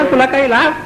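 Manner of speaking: high-pitched angry telling-off of the wife; staged husband's angry rebuke; angry scolding. Acted. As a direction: scold her hotly for keeping the guest waiting. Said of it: "हा मालक चिडला".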